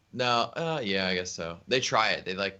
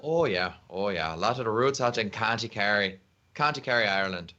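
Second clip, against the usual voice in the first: mock Irish accent. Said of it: "how did you get that good Irish accent".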